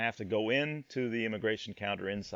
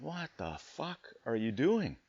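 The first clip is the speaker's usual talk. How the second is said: quiet, slow "what the fuck are you doing"; half-mouthed, stunned question; nearly mouthed disbelief; 6 dB quieter, slower than usual. Retold or imitated. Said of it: "or I might have mouthed that".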